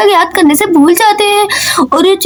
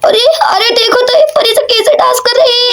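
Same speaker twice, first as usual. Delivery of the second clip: laughing through the words, higher; 5 semitones higher than usual. Acted. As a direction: crack up while mocking the dance. Audience laughing at dance.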